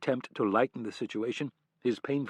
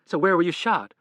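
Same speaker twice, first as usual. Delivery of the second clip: concerned and puzzled; 8 semitones higher, 9 dB louder than usual. A narrator's reading. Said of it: "Concerned and puzzled".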